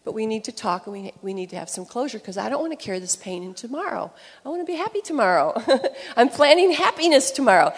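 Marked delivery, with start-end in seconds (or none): 4.4-7.7 higher, louder, laughing through it; a wife laughing as she plans happiness, higher and louder; laughing joy. Real, not acted. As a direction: bubble over with happiness.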